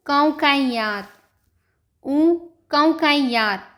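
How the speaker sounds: कौकैयार stretched slowly with a falling end; slow Portuguese word. Shown as a demonstration. Teacher modelling कौकैयार slowly for students. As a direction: spell out कौकैयार slowly for the class.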